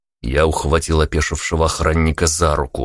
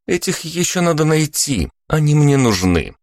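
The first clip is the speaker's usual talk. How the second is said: put-on young woman's voice; 9 semitones higher than usual. A narrator's reading. Vika voice.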